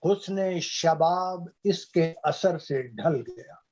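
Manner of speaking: measured Urdu couplet reading; ghazal recitation. Acted. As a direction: recite the verse with drawn words and pauses. (शायरी पढ़ने का अंदाज़)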